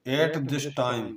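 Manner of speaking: very slow, word by word dictation; teacher dictating a sentence slowly to students. Shown as a demonstration. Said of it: "इस समय, at this time".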